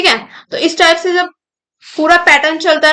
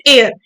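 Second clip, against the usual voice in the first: एयर said with clear emphasis; stress on एयर; 2 semitones lower, 4 dB louder, slower than usual. Shown as a demonstration. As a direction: put the weight on एयर. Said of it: "एयर पे हमने stress दिया". (एयर पर ज़ोर)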